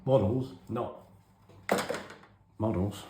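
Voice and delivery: high puzzled inner voice; bewildered. Retold or imitated. Boy forced to write an essay, baffled. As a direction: sound baffled by it all. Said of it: "I remember thinking".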